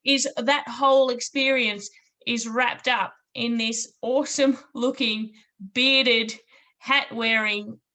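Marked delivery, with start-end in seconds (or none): 0.0-2.5 laughing. Real, not acted. Host laughs after compliment.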